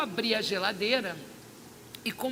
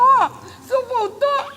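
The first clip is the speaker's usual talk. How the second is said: higher, louder, slow tearful wail of relief; tearful cry; 13 semitones higher, 11 dB louder, much slower than usual. Retold or imitated. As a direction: let the question break into a cry. Same question, now crying.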